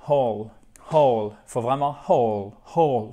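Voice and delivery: WHOLE with a strong H and open, round O; emphatic falling "hole"; open mouth. Shown as a demonstration. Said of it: "faut ouvrir la bouche".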